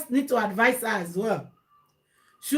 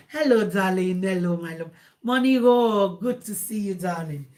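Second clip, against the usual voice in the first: lower, softening affectionate greeting; sweet-talking; 4 semitones lower than usual. Acted. Wife greeting her husband, sweet-talking in a low voice.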